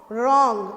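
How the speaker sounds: wrong said loudly with silent w; teacher modelling. Shown as a demonstration. (शिक्षक का ज़ोरदार उच्चारण)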